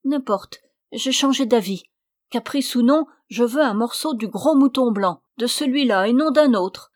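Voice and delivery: voix haute et forte qui ordonne; fausse malade impérieuse. Acted. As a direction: exiger sans réplique, en jouant la victime. (la suivante déguisée ordonne au seigneur de tuer le mouton)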